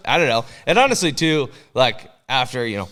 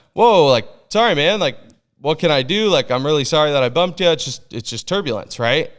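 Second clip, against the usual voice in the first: startled apology; 3 semitones higher, 3 dB louder than usual. Retold or imitated. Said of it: "And I just went".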